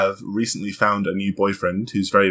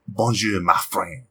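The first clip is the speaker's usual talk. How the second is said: lower, put-on French accent; 4 semitones lower than usual. Shown as a demonstration. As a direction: demonstrate a French-accented greeting. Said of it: "when you're doing a different".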